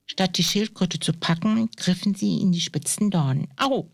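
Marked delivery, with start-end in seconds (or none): 3.6-3.9 high-pitched "ow" at normal volume; a storyteller's contained yelp of pain; brief, high ouch, not fully shouted; mild pained cry. A narrator's reading. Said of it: "schrie der eine".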